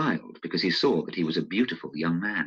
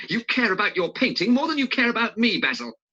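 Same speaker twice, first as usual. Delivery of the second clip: a mock shout, pitched high and a little louder; 4 dB louder than usual. A narrator's reading. Dorian shouting at Basil, in a mock hurt shout. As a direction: hurl it at him, hurt and accusing. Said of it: "he shouted".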